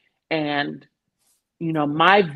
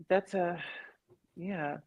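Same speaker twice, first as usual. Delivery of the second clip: ordinary talk, nothing marked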